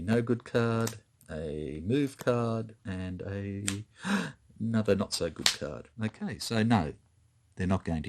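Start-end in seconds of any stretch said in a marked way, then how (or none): 3.7-4.3 sharp intake of breath; quick audible gasp. Pretend. Player going through a poor hand of cards, gasping. Reacts while reading out cards.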